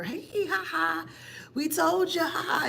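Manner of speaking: high-pitched gloating taunt; mocking laughter. Family member gloating over someone sent to jail, mock-laughing taunt. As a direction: imitate them laughing and gloating, pitched well up. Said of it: "in that kind of way".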